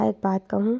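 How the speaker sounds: hushed, hesitant question; softly. A narrator's reading. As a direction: ask it gently, voice dropped. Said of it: "میں نے آہستہ سے کہا". (دھیمی آواز میں جھجکتے ہوئے)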